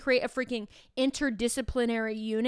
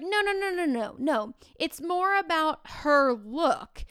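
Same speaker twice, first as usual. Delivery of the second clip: eager correction; 5 semitones higher, 3 dB louder than usual. Retold or imitated. Student steering her team in the game, eager and high. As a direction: hurry to set the team straight.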